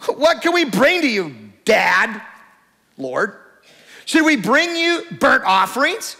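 put-on sarcastic teenager reading scripture; sarcastic lilt. Shown as a demonstration. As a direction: read it like an eye-rolling teen. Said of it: "I wanna read it like a sarcastic teenager".

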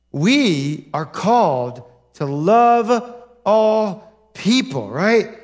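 slow and weighty, each phrase set apart; solemn slow preaching; slow, deliberate statement. Shown as a demonstration. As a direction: lay it down slowly with pauses. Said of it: "I'll say it one more time".

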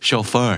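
chauffeur with weight on the second syllable; American pronunciation. Shown as a demonstration. Teacher showing the American habit, chauffeur stressed at the end. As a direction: say chauffeur as sho-FUR. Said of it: "บ้านเราจะออกเสียงตามอเมริกัน".

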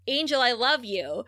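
understated retold love confession; plainly sincere, barely acted declaration; last-resort plea. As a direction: imitate a last plea to a lover, in a mild voice. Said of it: "Buffy does her last resort".

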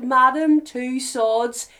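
slow, drawn-out announcer reveal; dramatic reveal. Acted. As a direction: unveil it like a showman.

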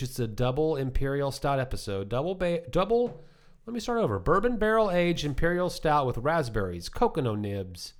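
tipsy, stumbling over the words. Real, not acted. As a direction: read it a little tipsy. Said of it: "I'm a little tipsy from that first beer".

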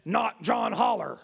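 slow, lightly voiced demon; measured, drawn-out answer from a demon; demonic voice. Demon answers the psychologist's question, slow eerie voice. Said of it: "And the voice said".

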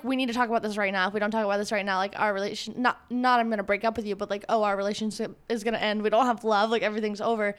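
fast, urgent mock panic; imitating her anxious self demanding to talk; anxious pleading. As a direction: rush it like it's all ending. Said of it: "I'm like".

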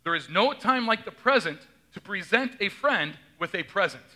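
"present" as PREsent, preSENT, PREsent; present three ways. Shown as a demonstration. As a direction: shift stress on each "present". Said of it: "Three different ways".

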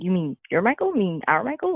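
retold questions with rising ends; check, puzzled, which one is meant; mild disbelief. Daughter voicing her father's confusion at the news, mildly disbelieving.

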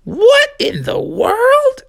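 high whisper. Acted. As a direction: breathe it out, stunned. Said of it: "Mother Frog was like".

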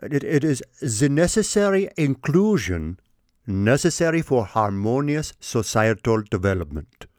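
a hint of a German accent, lightly mocking; imitating Schwab's accent. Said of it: "gonna do the accent again".

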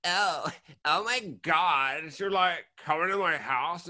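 slow, drawn-out Californian "oh my God"; hammed-up California accent. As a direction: play a mock Californian, stretching the words. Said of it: "California, where they're like".

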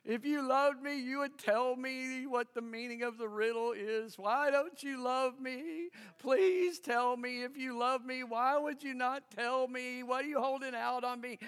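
a touch of whiny pleading; imitating the wife whining at her husband to tell the riddle; mock whining. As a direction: whine it lightly like a hurt new wife. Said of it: "She cries".

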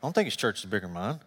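soft, low private grumble; inner thought. Retold or imitated. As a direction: keep it to yourself, hushed. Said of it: "in my mind".

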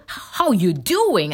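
drawn-out mock New York greeting; slow, lightly imitated New York drawl; attempted New York accent. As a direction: have a go at a New Yorker's accent. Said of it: "New Yorkers, they usually do the".

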